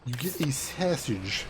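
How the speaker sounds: slow, deliberate Chicago "sausage", first vowel like "sassage"; Chicago accent. Shown as a demonstration. Streamer repeating the sausage example, slow Chicago accent. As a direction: drag it out like a Chicago local. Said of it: "to do a Chicago accent".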